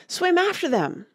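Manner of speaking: very high-pitched, excited cry; mild scream. A narrator's reading. Gryphon caught up in describing the dance, screaming. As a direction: scream it without full volume. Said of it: "screamed the Gryphon".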